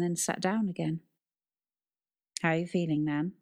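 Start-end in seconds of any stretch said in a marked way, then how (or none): 2.4-3.3 deep gentle uncle voice; soft spoken man. Acted. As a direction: ask gently, low and kind. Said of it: "in a deep, gentle voice".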